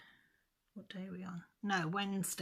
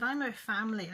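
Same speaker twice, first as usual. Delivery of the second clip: higher and louder, reliving the fury at the nurse; retold furious outburst; 5 semitones higher, 6 dB louder than usual. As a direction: snap it back at her like you did that day. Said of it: "Well, I lost it".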